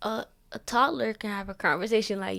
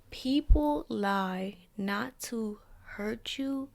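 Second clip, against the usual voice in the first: professor impression; much slower than usual. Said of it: "I'm not gonna say exactly how he said it".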